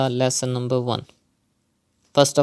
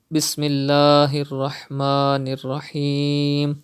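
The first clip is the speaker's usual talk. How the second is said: Quranic recitation; faster than usual. Real, not acted. Recites the opening before reading.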